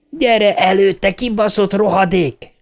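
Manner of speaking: high-pitched furious challenge; high, angry cry; enraged yelling. Acted. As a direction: dare the enemy to come out, crying it high. Enraged boy challenges the killer.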